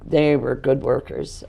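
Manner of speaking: strained, fading hoarse voice. Real, not acted. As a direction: voice giving out. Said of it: "I'm losing my voice".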